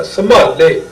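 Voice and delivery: ਸੰਭਾਲੇ with a heavy, held m; weighted pronunciation. Shown as a demonstration. Teacher explaining the mark under the letter, ਸੰਭਾਲੇ said heavy on the m. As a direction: lean on the m in ਸੰਭਾਲੇ. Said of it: "ਉਹਨੂੰ ਭਾਰਾ ਕੀਤਾ".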